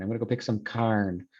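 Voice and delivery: lightly voiced rural Utah accent, corn as carn; casual Utah farm talk, carn for corn. Shown as a demonstration. Teacher mimics rural Utah speech. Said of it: "is pronounced carn".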